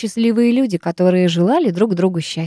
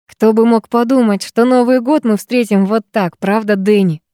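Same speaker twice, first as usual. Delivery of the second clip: весело; 2 semitones higher than usual. Acted. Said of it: "весело спросил Роберт".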